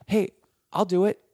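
high, loud eager offer; eager volunteering. Retold or imitated. Volunteering to the boss, eagerly high. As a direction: jump in with the offer. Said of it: "So then I go".

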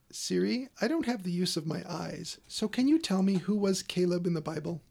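deliberate command to Siri; talking to voice assistant. Real, not acted. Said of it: "let's see what she can do".

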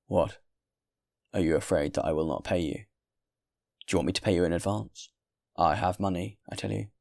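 lightly voiced indignant guest; indignant traveller. Traveller protests to the host that he will pay, indignant.

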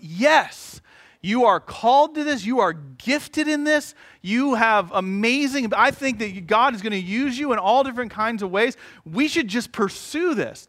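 lifted, earnest pep-talk voice, a bit slow. Retold or imitated. His encouraging inner voice tells his wife she's called, lifted and earnest. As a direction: cheer her on like a gentle pastor. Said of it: "the part of my brain that was going".

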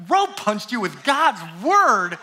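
drawn-out, incredulous echo; mock disbelief. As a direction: stretch it out as if taken aback. Echoes Joe's words in disbelief.

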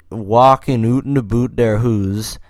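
hammed-up Canadian accent; stereotyped Canadian accent. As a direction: tease with exaggerated Canadian "oot" vowels. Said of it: "our accent people think we have".

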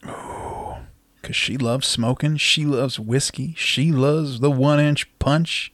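sultry tease. Pretend. Teasing about the lady's tastes.

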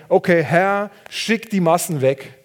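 pretend demand. Elisha imagined ordering God, mock bossy and loud. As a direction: toss it off as a cocky order. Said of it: "hätte doch sagen können".

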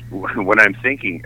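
slow words through a laugh; laughing while quoting. Retold or imitated. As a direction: chuckle as you quote your father.

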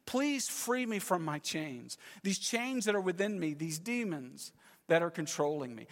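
a hushed, mild acted plea; quiet begging. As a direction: beg gently to be set free. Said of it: "he's begging".

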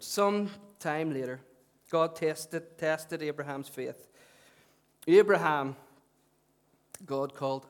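measured public Bible reading, spaced phrases; scripture reading. Real, not acted. Preacher reads Abraham's testing to the congregation, measured scripture reading.

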